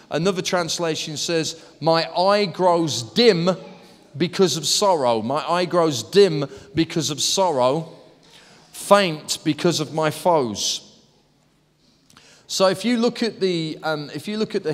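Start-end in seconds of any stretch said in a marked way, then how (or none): 1.8-10.8 slow, deliberate scripture reading; psalm reading. Acted. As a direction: dwell on each phrase of the lament. Reads another translation.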